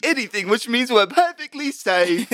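high-pitched, drawn-out lookout report; calling from lookout. Acted. Lookout reporting to the crew from the crow's nest, high drawn-out call. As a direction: call it down high and slow, half laughing.

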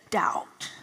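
breathy whispered single word; whispered doubt. Retold or imitated. Naming the doubt that rose up, whispered. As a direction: let it hang as a whisper.

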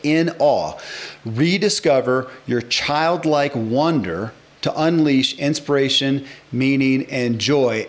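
slowly, each word set apart; unhurried, weighty reading of the title; slow, deliberate title read. Shown as a demonstration. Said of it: "actually listen to the title of the book".

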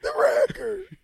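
high-pitched mock wail; hammed-up fake crying. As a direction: squeal it as if sobbing. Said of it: "the way he got emotional".

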